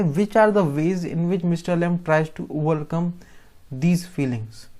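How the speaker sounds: very slow, deliberate reading of an exam question; teacher dictating a question slowly. Shown as a demonstration. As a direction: read it out slowly for the class to follow. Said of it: "reading exam question aloud".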